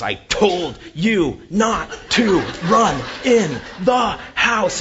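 high, loud, slow, every syllable hit; mom's furious scolding. Retold or imitated. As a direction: shriek it like an angry mom spanking on each word. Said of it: "she would even split syllables".

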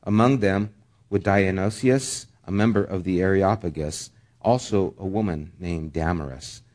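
measured public Bible reading; scripture reading. Acted. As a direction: read the passage aloud to a congregation. Reads scripture aloud.

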